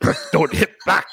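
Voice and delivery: lightly voiced Bloodsport villain line; a hint of the movie villain's accent, deadpan; Chong Li accent. Host quoting Chong Li's movie line in a light accent. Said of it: "That's the character".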